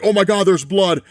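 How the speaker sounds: half-hearted panicked exclamation; mock panicked cry. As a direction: act out a man alarmed at blood. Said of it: "he just starts screaming".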